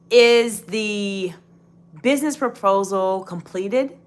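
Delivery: "completed" rising at the end, as a real question; question intonation. Shown as a demonstration. Coach demonstrating a real question to viewers, question intonation. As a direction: ask it, lifting the pitch on "completed". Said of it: "that sounds like a great question".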